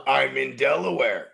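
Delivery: a slow, drawn-out hint of a cheesy TV pitch; lightly voiced movie quote, slowed; quoting a movie line. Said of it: "Remember in Wayne's World?".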